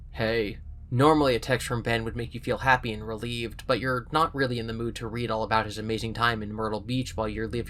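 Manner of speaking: even storybook reading voice; steady read-aloud narration; story narration. A narrator's reading. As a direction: read the book to listeners. Reading a choose-your-own story aloud.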